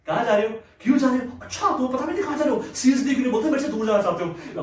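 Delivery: mock interrogation, pitch lifting as it goes; mimicked questioning wife. Wife grilling her departing husband on where he's going, mimicked nagging. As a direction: fire questions like a suspicious wife. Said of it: "वहां दस बार पूछती".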